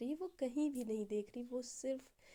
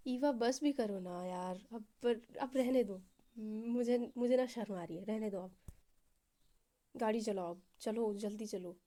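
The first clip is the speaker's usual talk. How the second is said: hammed-up bashful pleading with a cute pout; cute shy act; 3 dB louder than usual. Girlfriend begs Eva to stop praising and drive, mock-coy. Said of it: "वो ऐसे नाटक कर रही थी, cute सा face बना के".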